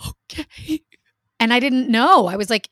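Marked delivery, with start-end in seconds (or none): 0.1-0.8 high, small, wavering agreement; imitated reluctant child. Mom imitating scared daughter agreeing to stay, small high voice. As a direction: give in with a tiny high voice.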